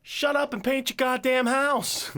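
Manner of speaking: high, slow mock snarl; slow high-pitched hammed-up grouch; grumpy neighbor. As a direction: spit it out like a cranky old man. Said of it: "He's like".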